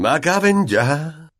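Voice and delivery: slow, high, drawn-out jolly call; showy cheerful teacher, stretching the words; cheery exclamation. A narrator's reading. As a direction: call out with a big smile. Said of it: "exclamó, sonriéndoles a todos".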